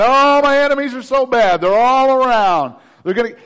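hammed-up complaining prophet; whining Jeremiah. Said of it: "Jeremiah's whining".

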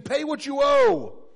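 demanding shout. Acted. Servant demands debt, choking.

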